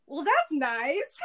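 amused understated aunt; laughing aunt. Retold or imitated. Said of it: "she was like".

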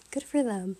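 unintentionally bitter, low pitch; low, faintly bitter sign-off; bitter-sounding. Retold or imitated. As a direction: let it come out a little bitter. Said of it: "that sounded bitter".

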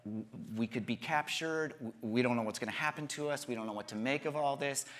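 low, softened voice of worried disciples; a touch of huddled worry; retold fear. Disciples hiding behind locked doors, mildly fearful. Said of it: "They're huddled up in fear".

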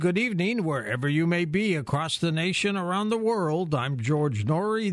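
smooth late-night radio host opening; radio host intro. Acted. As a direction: open the show like a radio announcer.

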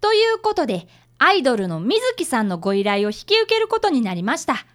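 lightly voiced next-time announcer read; a hint of a narrator closing the show; episode wrap-up narration. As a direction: tease the next episode to the listeners.

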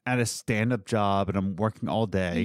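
words pushed out through a burp. Real, not acted. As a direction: talk right through a burp. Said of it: "excuse me, burp king".

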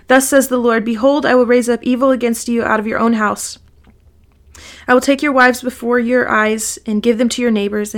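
steady, measured Bible reading voice; scripture reading. Acted. Reading scripture aloud to the group, measured and steady. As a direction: read the passage to the study group.

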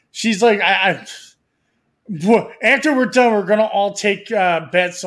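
excited burst. Real, not acted. Excited loud outburst.

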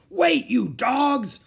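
high, drawn-out bellow; desperate shout. Acted. Captain wading after his rowing crew, shouting. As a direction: bellow slowly after the boat.

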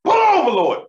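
praying she gets pulled over; desperate prayer. Retold or imitated. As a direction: beg the Lord for the cops to stop her. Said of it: "I pray, I was like".

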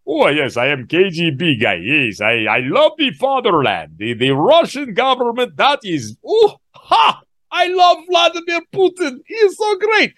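hammed-up Russian spy accent, going high and shouty at the end; mock Russian accent. YouTuber mocks the suspected spy husband, hammed-up Russian accent. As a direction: play a gushing Russian KGB guy in a mock Russian accent. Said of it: "you got Bobby that's like".

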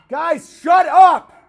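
real yell at the dogs mid-stream; shouting at dogs. Real, not acted. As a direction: bark the order at the dogs to hush. Yelling at barking dogs.

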